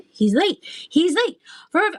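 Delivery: high sing-song White Rabbit, lightly done; White Rabbit rhyme. Pretend. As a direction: chirp it like the hurried rabbit. Quoting White Rabbit's line.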